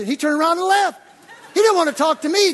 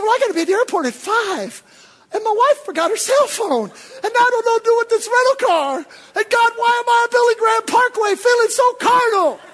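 much higher and louder, near shouting; stressed preacher shouting to God; frantic rant; 11 semitones higher, 8 dB louder than usual. Retold or imitated. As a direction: pile up the panic, rising.

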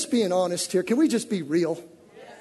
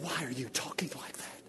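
whispered, much softer; whispered prophet's rebuke; hushed rebuke; 7 semitones lower, 18 dB quieter than usual. Acted.

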